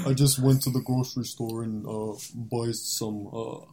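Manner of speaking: lightly voiced YouTuber greeting; McDillon voice. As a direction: play a goofy vlogger character. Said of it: "do your McDillon voice".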